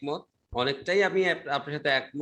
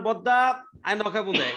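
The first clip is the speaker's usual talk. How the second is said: Chittagong dialect; 2 semitones higher than usual. Retold or imitated. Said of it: "আর ওই যে চিটাগাংয়ের মানুষ".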